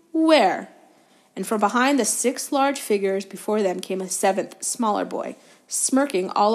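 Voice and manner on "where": high, loud sudden question; surprised. A narrator's reading. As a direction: ask it startled. Wood looking for seeker.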